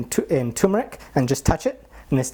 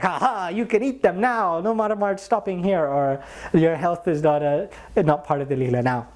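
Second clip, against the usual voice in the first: higher, slow, teasing sing-song; playful teasing; 5 semitones higher than usual. Retold or imitated. Devotee tells guru's murti he can eat now, high teasing. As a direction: tease him gently, amused.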